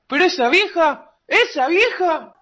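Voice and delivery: rising, pitch climbing on each esa vieja; indignant outburst. Acted. A young man, angry at the old mother, repeating esa vieja.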